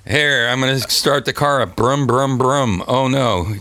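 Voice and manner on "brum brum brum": engine noise. Pretend. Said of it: "That's my onomatopoeias".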